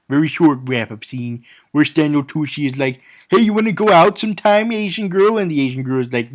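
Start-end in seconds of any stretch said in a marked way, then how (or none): 3.3-5.4 lightly voiced eager suitor, higher and quick; mock-eager chat-up; mock pickup line. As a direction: toss out a quick, higher-pitched come-on. Acting out a film character's pickup line.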